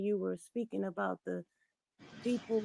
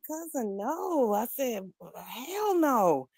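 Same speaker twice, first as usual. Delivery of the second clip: outraged refusal; 3 semitones higher, 6 dB louder, much slower than usual. Retold or imitated. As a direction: shut him down hard. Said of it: "And I said".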